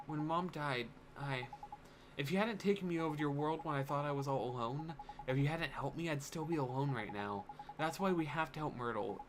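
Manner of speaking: put-on understated earnest young hero; lightly voiced sorrowful boy. Boy recalling being alone after Mom died, gently earnest. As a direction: confide with a touch of sadness as the boy.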